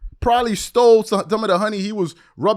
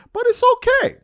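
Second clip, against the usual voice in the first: sing-song sarcastic okay, pitched up; mock soothing; 14 semitones higher than usual. Real, not acted. A vlogger taunts a rival pundit, sing-song sarcastic okay. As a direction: pat him on the head with a sarcastic okay.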